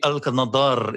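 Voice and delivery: "Al Qanadar" with the final R rolled. Shown as a demonstration. Actor discussing an Arabic-sounding name, "Al Qanadar" with rolled R. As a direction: roll the R at the end of "Al Qanadar". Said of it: "roll my R's on".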